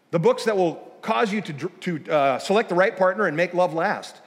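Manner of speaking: announcer read; hammed-up radio show intro. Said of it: "this is what I read".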